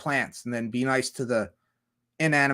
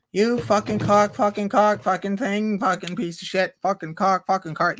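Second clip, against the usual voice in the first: high, repetitive mock ranting at a car; hammed-up frustrated swearing, pitch held high; acted cursing; 6 semitones higher than usual. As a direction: play a driver cursing the car. Acts someone cursing at their car.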